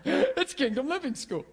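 laughingly correcting the school name. Real, not acted. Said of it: "I'm just kidding".

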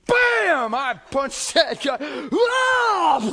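high, loud, slow shout of the blow; shouted punch. Retold or imitated. Pastor reliving punching the man, loud excited shout. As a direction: yell it out like landing the hit.

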